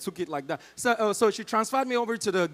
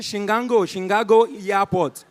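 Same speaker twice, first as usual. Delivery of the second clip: put-on American accent; 5 dB louder than usual. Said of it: "my American accent".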